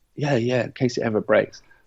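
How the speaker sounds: plain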